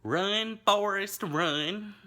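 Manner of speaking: high, loud yelled movie line; loud mock movie shout; movie quote shout. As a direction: belt it out like the film. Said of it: "is said".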